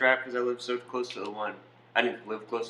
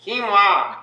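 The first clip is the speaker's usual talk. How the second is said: high, loud mock Asian shout; mock Asian accent; 8 semitones higher, 8 dB louder than usual. Asked to say it again, mock Asian accent. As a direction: burst it out in a caricatured Asian accent. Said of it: "so it's Asian".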